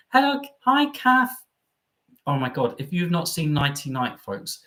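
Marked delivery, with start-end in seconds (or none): 0.1-1.3 very high mock greeting; comedy catchphrase. Quoting Nighty Night to a fellow fan, mock sitcom voice. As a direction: imitate the show's hello, pitched right up. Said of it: "it reminds me of Nighty Night".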